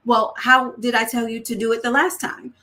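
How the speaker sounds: put-on mild teacher quizzing a child; guiding question, lightly stern; teaching tone. Shown as a demonstration. Parent quizzing a child, mildly teaching. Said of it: "your tone sounds like you're teaching".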